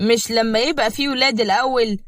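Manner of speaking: lightly sarcastic question; mocking. Mourad answering talk of baby names, mockingly. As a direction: needle them with mild ridicule. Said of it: "مراد رد بتريقة".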